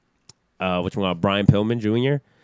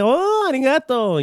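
imitating wrestler; 3 dB louder than usual. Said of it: "and she's like".

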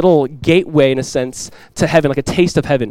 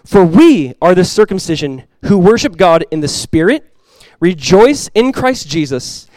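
scripture reading. Acted. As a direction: proclaim the passage to the congregation. Reads Philippians aloud.

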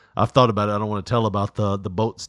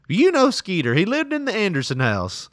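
mom's voice; 8 semitones higher than usual. Retold or imitated. Mom voiced in story.

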